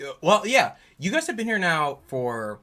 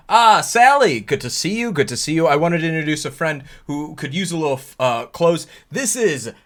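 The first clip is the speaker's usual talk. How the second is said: loud, higher-pitched hearty greeting; Mister Streeter; 5 semitones higher, 9 dB louder than usual. Acted. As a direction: boom out a welcome, then fumble for the name. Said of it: "He says".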